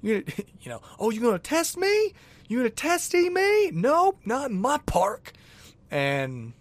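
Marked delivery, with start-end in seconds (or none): 0.0-0.3 very high, squeaky cartoon dog voice; Finn's voice. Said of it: "I feel like that's what Finn says". 1.0-5.3 very high, squeaky cartoon dog voice; Finn's voice. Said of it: "I feel like that's what Finn says".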